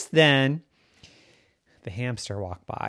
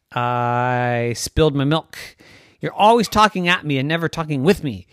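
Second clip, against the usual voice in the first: raised, louder put-upon cat voice; the misunderstood pet airs his grievances; complaining cat; 4 semitones higher, 9 dB louder than usual. Acted. Cat Ted complains to Salim that he never listens, aggrieved cat.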